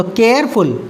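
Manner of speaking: केयरफुल broken into केयर and फुल; two syllables. Shown as a demonstration. Teacher counting syllables, केयरफुल split in two. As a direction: say केयरफुल in two separate beats. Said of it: "दो बार में बोला है".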